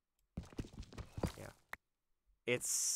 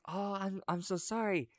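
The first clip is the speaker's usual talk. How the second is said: higher-pitched flustered apology; apologetic old lady; 9 semitones higher than usual. Acted. Old lady apologizing for cutting the tail, flustered. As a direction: apologize in a raised granny voice. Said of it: "and she's like".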